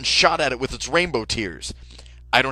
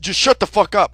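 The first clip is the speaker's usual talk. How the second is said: loud, higher furious yell; angry shout; 7 semitones higher, 8 dB louder than usual. Retold or imitated. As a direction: snap it at him. Killer snaps at friend.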